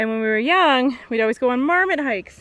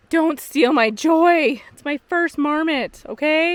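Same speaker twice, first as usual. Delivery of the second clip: mock indignant; 3 semitones higher, 6 dB louder, slower than usual. Real, not acted. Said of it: "I'm excited".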